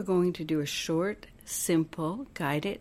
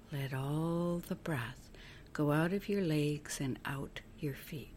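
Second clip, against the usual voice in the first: guided meditation; 5 dB quieter than usual. Acted. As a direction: guide them gently through each breath, letting phrase endings soften. Leads breathing visualization.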